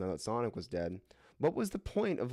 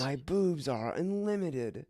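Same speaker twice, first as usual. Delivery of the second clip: mock sultry quote; 6 semitones higher, slower than usual. Mock Rouge line, slow.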